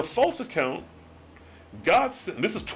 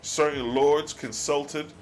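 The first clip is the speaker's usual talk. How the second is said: solemn scripture reading; 3 semitones lower than usual. Acted. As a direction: read the old words like a solemn sermon. Reads God's archaic reply.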